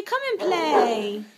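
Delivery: slow, high coaxing voice. Real, not acted. Mother coaxing her baby to call the cat, slow and high.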